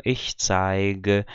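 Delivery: zeige with a hard G as in go; voiced G. Shown as a demonstration. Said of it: "vozeada ou desvozeada".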